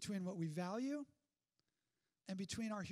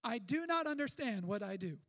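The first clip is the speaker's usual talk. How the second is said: emphatic Paul quote; 6 dB louder than usual. Acted. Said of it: "Here's what he says".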